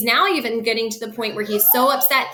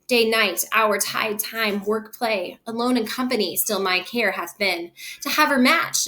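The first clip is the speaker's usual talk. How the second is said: angry father. Acted. Capulet's long rant.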